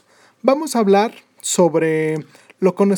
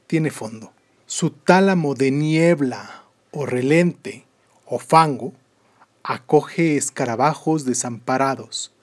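poem reading; 3 semitones lower than usual. Acted. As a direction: read the poem with weight and pauses. Reads Benedetti poem aloud.

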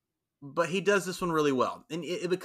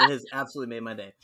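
laughing; 5 semitones lower, much faster than usual. Real, not acted. Laughing while talking.

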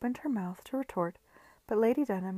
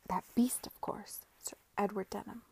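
conspiratorial. Acted. Whispered secret continues.

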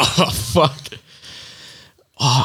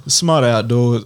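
lightly put-on presidential voice; half-hearted American statesman impression; Barack Obama; 3 semitones lower, slower than usual. Host reading outdoor sponsor on request, loose presidential impression. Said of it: "sounding like Barack Obama".

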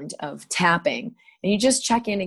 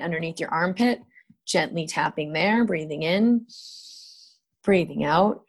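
calm, gentle guided instructions; guided tapping. Acted.

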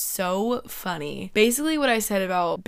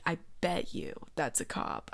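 nervous whisper; 3 semitones lower, 7 dB quieter than usual. Retold or imitated. Nervous mutter, repeated.

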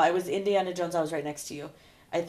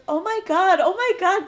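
higher, louder retold alarm; mock panic; 10 semitones higher, 7 dB louder than usual. Woman sees rider stuck in the ride, mock panic. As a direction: imitate a woman getting flustered.

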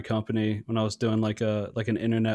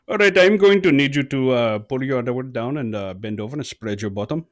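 put-on Indian accent; 4 dB louder than usual. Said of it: "still had a very heavy Indian accent".

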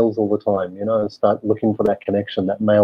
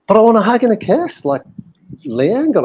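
put-on much higher, childlike whine; pleading little boy; 11 semitones higher than usual. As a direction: beg like a hurt six-year-old. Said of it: "and I was like".

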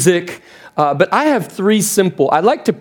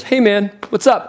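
laid-back buddy greeting, pitched up; God/character; 4 semitones higher than usual. Acted. Imagined God greeting an angry new arrival, casual and higher-pitched. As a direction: greet him like an easygoing pal. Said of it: "how I think God talks".

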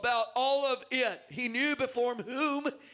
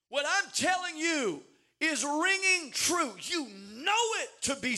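urgent pleading; 2 semitones higher than usual. Acted. Paul presses Agrippa to believe.

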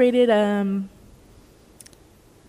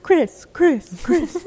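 high, eager calling of a name; calling out excitedly; 9 semitones higher, 5 dB louder, much slower than usual. Retold or imitated. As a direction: call his name like you're thrilled to see him. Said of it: "I'm always like".

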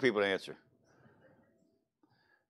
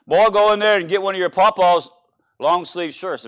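raised, louder imitation of a Southern grandma; lightly voiced grandmother; 5 semitones higher, 6 dB louder than usual. Memo sending the grandson for a shirt, lightly imitated grandmother. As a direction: play a country grandmother giving orders, lightly. Grandmother's order acted in a story.

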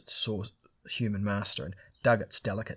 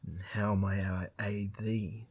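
purring cat lord; slower than usual. Acted. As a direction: purr it like a lazy cat. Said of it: "he purred".

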